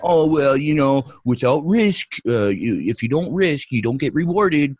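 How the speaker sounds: mock-sage singsong; mocking quote. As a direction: recite the cliche mockingly. Mocking dummies' cliched saying.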